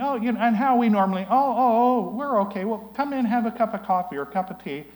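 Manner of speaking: high, loud, flustered welcome; a hint of a surprised friend greeting an unexpected visitor; flustered surprise. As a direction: caught off guard but welcoming.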